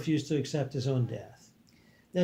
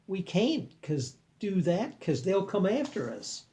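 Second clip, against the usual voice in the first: blurted; 6 semitones higher, slower than usual. Acted. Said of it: "blurted one of the males".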